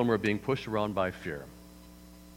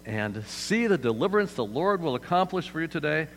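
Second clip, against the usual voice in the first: Moses commanding; 6 semitones higher, 4 dB louder than usual. Retold or imitated. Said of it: "says to them".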